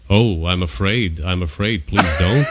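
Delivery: mock fear. Real, not acted. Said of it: "It's very soothing".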